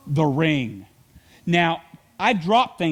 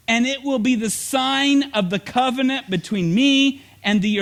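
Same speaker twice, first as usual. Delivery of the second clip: scripture reading; 3 semitones higher than usual. Acted. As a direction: proclaim God's words to the congregation with weight. Reads Genesis aloud.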